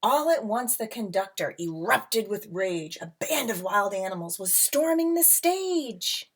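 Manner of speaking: lilting read-aloud storybook voice; rhyming picture book read to a class; reading to children. A narrator's reading.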